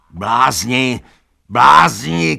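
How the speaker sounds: high, loud angry yell; furious shout. A narrator's reading. Benjamin yelling at the fooled animals, furious high shout. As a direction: bellow at them, building. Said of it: "křičel Benjamin".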